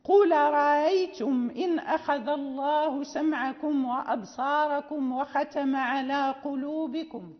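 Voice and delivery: "أرأيتم" with softened hamza, recited line; eased hamza recitation. Shown as a demonstration. Teacher recites the example for Qalun, measured. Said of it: "مثلًا".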